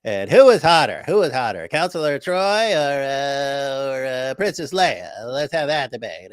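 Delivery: a hint of a goofy fanboy pitching nonsense topics; mocking David Wood. Co-host mocks David's debate picks in a silly voice. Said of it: "he's gonna be like".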